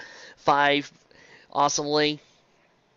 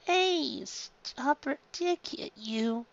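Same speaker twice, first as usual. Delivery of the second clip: Luffy weak; 9 semitones higher, 7 dB quieter, much slower than usual. Acted. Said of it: "He smiled weakly".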